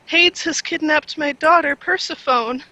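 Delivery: Hades said as one syllable, like "hay-dz"; Persephone said "Per-seh-fone", rhyming with phone; Hades mispronounced. Acted. Game master's NPC mangling Hades and Persephone. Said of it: "and she says".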